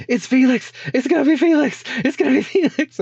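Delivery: high excited yelling; excited shout. Retold or imitated. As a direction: yell it out with excitement. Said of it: "I was like".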